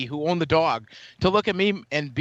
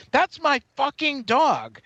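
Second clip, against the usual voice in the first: angry yell; 8 semitones higher, slower than usual. Retold or imitated. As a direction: bark it at the driver in outrage. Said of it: "and says".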